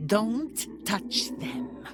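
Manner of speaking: angry shout. Acted. Hero protecting the children.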